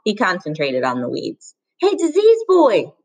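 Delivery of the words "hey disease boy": slow, high and loud jeering shout; taunting shout. Acted. Bully shouting insults at Rob, slow loud taunt. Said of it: "Norton shouted".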